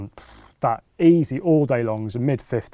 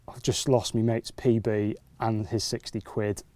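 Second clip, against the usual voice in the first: slow, softer dismay; 6 dB quieter than usual. Retold or imitated. Angler realising he lost his mate's fish, slow and soft. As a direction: let it sink in that the fish is gone. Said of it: "And I'm just there like".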